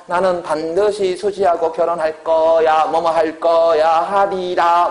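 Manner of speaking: slow, deliberate mock vow; 의지적 어조. Shown as a demonstration. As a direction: declare firm resolve, stretching the endings. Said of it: "의지적 어조". (느리게 힘주어 다짐하는 시범)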